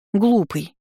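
a touch of outrage; indignant. A narrator's reading. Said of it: "возмутилась Лаша".

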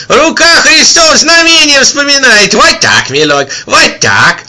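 put-on high, loud old man crying out; old man's yell. A narrator's reading. Old man shouting about the miracle, loud and high. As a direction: cry out like an excited old peasant.

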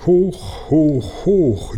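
high, jubilant hurrahs; cheering. A narrator's reading. Herr Ärmel cheers the king's decision, high jubilant cheer. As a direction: cheer with your hat in the air. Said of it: "jubelte Herr Ärmel".

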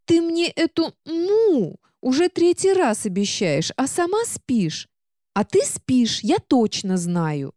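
высоко, протяжно и капризно; ноет, растягивая слова; книга-ворчунья, высокий голос. Acted. Книга упрекает героиню. (капризная говорящая книга)

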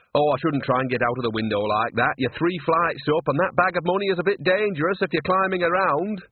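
cheerfully needling witch; cheeky old witch Nanny. Acted. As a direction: warn him sweetly while catching him out.

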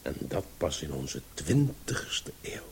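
lecturer's sudden whispered aside. Acted. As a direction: drop to a confiding whisper.

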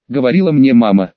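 ordinary delivery

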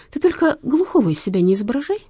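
sharp reprimand from the cop; scolding shout. A narrator's reading. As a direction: snap at him to stop pretending. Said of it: "прикрикнул на него".

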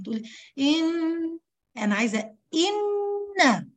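mock the all-nose إن; nasal-only إن. Shown as a demonstration. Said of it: "عايزة أسمع صوت من الفم".

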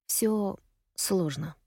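slow, strained and quiet; tight, very slow understated sigh of words; tense voice. Acted. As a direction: drag the words out, holding back. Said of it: "говорит она напряжённым голосом".

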